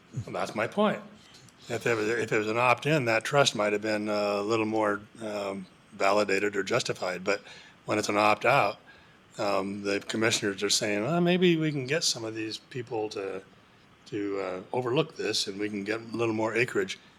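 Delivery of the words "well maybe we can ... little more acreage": normal talking voice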